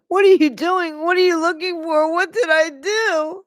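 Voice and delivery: mock crying plea. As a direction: cry it out pleading. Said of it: "I followed her in my wheelchair crying".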